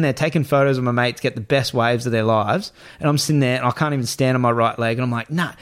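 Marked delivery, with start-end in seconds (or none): 5.3-5.5 higher-pitched re-enacted demand; imitated stubborn plea, raised pitch; insistent retold demand. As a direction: act out insisting on it. Retelling his demand to mates.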